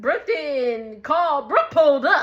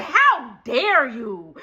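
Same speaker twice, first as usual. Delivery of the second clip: slow, loud mock outrage; indignant; 5 dB louder, much slower than usual. Storyteller reacting to disrespect of stepdad, indignant. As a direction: draw it out, scandalized. Teller retells own outrage.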